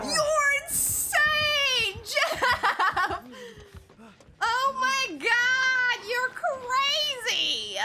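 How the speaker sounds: slow, laughing shout of disbelief. Real, not acted. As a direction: yell it out through laughter, amazed at the teammate. Teammate makes crazy play.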